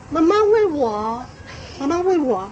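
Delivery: lightly imitated child asking mom; child's plea. Acting out child demanding feeding. (模仿孩子央求妈妈)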